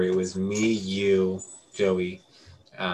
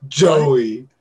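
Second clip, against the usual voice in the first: 1 alarmed call; 3 semitones higher, 8 dB louder than usual. Retold or imitated. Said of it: "And I was like".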